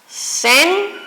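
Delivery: "acento" broken up syllable by syllable with long pauses; split into syllables. Shown as a demonstration. Teacher dividing the word for students, "acento" split into syllables. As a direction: say "acento" as separate pieces, a, cen, to. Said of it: "Si divido la palabra acento, quedaría".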